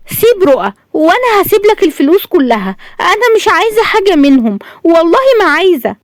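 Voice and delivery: high-pitched, tender pleading. A narrator's reading. Daughter talking her father down, tender pleading. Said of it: "قالت شاهندة بحنان".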